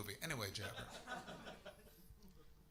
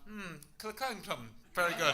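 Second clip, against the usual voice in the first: mock impressed reader. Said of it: "I would have gone".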